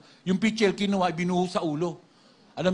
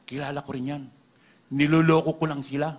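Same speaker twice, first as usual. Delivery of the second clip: big demon voice; 3 semitones lower than usual. Retold or imitated. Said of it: "Malaki yung boses".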